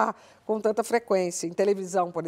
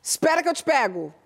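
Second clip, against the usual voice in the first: reassuring; 4 semitones higher than usual. Shown as a demonstration. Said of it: "Você fala assim".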